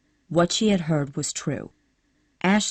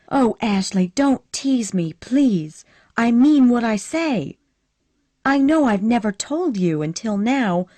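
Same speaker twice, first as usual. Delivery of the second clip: put-on higher and louder, eager young woman begging; pleading Scarlett; 6 semitones higher, 5 dB louder than usual. A narrator's reading. Scarlett begging Ashley to take her seriously, higher pleading voice. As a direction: push her voice up, urgent and pleading.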